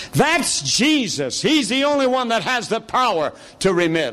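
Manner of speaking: lightly voiced smug theologian; mocking theologians. Preacher mimicking Dallas theologians, mildly mocking. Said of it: "I had theologians say this to me".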